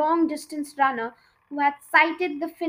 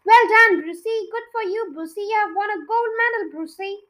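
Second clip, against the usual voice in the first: high, loud jubilant cheers; cheering crowd; 6 semitones higher, 6 dB louder than usual. A narrator's reading. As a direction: celebrate the winner wildly. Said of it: "yelling and clapping and shouting".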